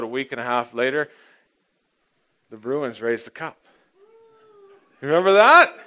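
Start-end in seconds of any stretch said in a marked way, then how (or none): 5.0-5.8 higher, much louder rallying question; excited callout. Real, not acted. Pastor reminding the congregation of the Bruins' win, excited shout. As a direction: fire up the crowd with the memory. Recalling Bruins winning the cup.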